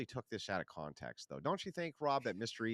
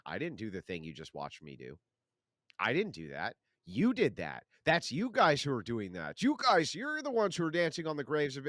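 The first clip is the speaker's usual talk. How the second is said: smug mocking denier, louder as it builds; mock denial; 5 dB louder than usual. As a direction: mimic a liar denying to your face.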